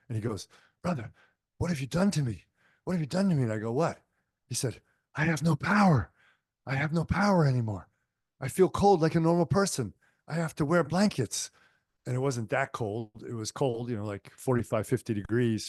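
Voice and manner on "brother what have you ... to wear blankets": higher, louder, panicked pleading; a touch of imitated terror, pitched up; retold panic. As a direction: plead like a man who has lost everything, mildly imitated. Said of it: "absolutely petrified, scared, terror was in his eyes".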